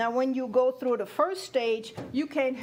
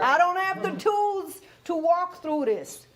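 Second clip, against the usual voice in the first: higher, laughing through the words; 6 semitones higher, 4 dB louder than usual. Real, not acted. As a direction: laugh as you say it. Laughing while quoting herself.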